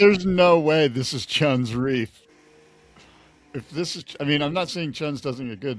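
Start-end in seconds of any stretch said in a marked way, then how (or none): 0.0-2.2 slow, loud, stunned denial; no way, said big and slow; loud disbelief. Real, not acted. Disbelief watching clip.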